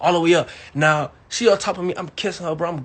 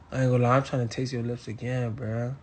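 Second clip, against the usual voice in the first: hushed seductive ask; 7 semitones lower, 9 dB quieter than usual. Retold or imitated. Seductive line to her.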